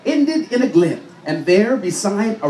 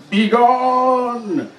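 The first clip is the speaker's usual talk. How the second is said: growling dragon; 3 semitones higher than usual. Acted. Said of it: "the dragon puffed and growled".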